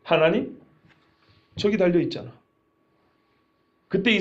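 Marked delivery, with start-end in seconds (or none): 0.0-2.3 low, mocking aside; sneering retort. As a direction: imitate a bystander's bitter sarcasm. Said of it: "한 사람이 비꼬는 듯이 말하네".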